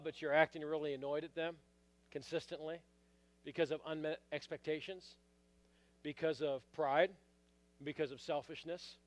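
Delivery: low, hushed, earnest appeal; soft searching question. Real, not acted. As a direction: ask it quietly, leaving space between the reasons. Preacher asks searching personal question.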